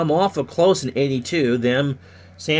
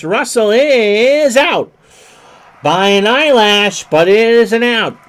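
louder, higher excited call; 10 semitones higher, 10 dB louder than usual. Acted. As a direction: rise up for the close play. Close play at first.

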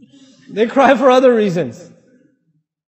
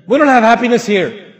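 put-on louder, fast rant at the kid; angry father; 5 dB louder, faster than usual. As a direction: scold the child like an irritated dad, louder. Father yelling at child.

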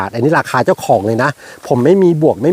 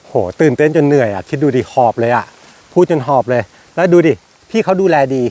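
panting from excitement; winded after talking nonstop; breathless, catching air between words; out of breath. Real, not acted.

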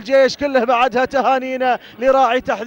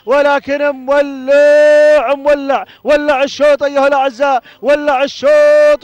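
excited shouting; 6 dB louder than usual. Real, not acted. Commentator tells listeners the race is on fire, in excited shouts. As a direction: whip up the crowd as the race heats up.

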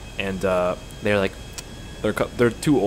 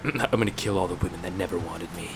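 put-on British accent; 5 semitones lower, 7 dB quieter than usual. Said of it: "I don't know why he's going British".

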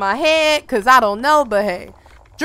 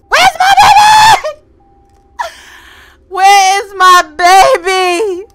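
high, loud hammed-up wail; shrieking, then slow loud wail; frantic demand; 5 semitones higher, 7 dB louder, slower than usual. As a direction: scream for the missing baby, mock-frantic. Frantic when baby is missing.

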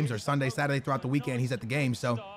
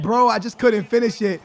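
ordinary talk, nothing marked

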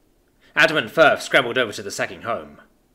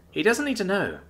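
reassuring; 8 semitones higher, 4 dB quieter than usual. Acted. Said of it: "Ava reassured him".

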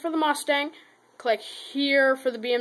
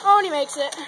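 excited cheer; 3 semitones higher than usual. Real, not acted. Kid cheering his toy Cadillac through, excited. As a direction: cheer the car across the line. Car survives the track.

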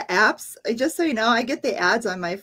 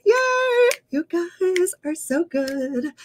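excited cheer; 8 semitones higher, slower than usual. Real, not acted. Teacher celebrates answers.

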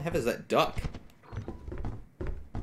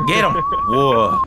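very high excited shout; 9 semitones higher, 3 dB louder, slower than usual. Real, not acted. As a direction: cheer in delight. Dog attacks.

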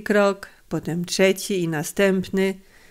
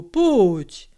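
kindly coaxing. A narrator's reading. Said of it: "jął dobrotliwie przemawiać".

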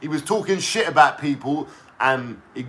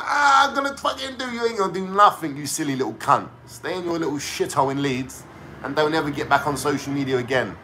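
mocking angry rant; 3 dB quieter than usual. Vlogger mocking Uncle K's angry rants, mock fury. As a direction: mimic a petty online tough guy losing it. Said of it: "all angry and that".

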